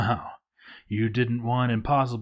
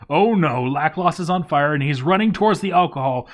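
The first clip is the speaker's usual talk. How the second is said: fast, louder, higher alarm; panicked; 4 semitones higher, 5 dB louder, faster than usual. Real, not acted. Player watching a burning dwarf near alcohol, panicked. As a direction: rush it out as disaster unfolds.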